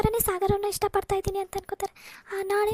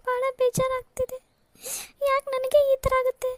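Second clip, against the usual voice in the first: tearful, pitch climbing as she breaks down; weeping out her hurt to her sister; elder sister sobs to Rani about being rejected everywhere; crying; 4 semitones higher than usual. Acted. Sister still crying after insult.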